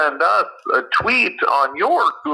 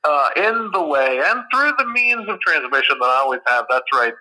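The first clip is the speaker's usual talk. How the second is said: speakerphone sound; tinny voice over phone; phone speaker. Real, not acted. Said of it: "speakerphone on a Google Pixel three".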